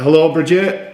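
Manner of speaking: British-accented greeting, lightly put on; sexy British voice. Shown as a demonstration. Podcast co-host greets a listener on request, sexy British voice. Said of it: "Say it in your sexy British voice".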